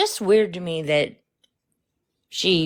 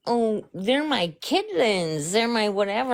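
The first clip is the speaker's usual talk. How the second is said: creepy voice; 3 semitones higher than usual. Retold or imitated. Quoting the babysitter talking to the kids, creepy voice. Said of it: "she's doing this creepy voice".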